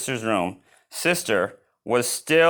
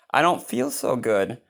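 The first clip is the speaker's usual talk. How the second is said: low scratchy voice. Acted. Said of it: "in her low, scratchy voice".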